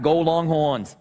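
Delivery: lightly mimicked Boston accent; understated Boston accent impression. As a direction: cheer with a hint of Boston accent. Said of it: "He's got that Boston accent".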